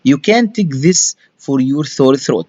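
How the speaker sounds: "You can take this for your sore throat" read very slowly, word by word; slow model reading. Shown as a demonstration. Teacher reading slowly to the student. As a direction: spell it out slowly for the learner. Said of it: "slow reading".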